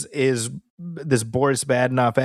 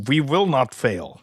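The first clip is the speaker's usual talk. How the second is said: mock defiant resolve. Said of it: "And Nolan's like".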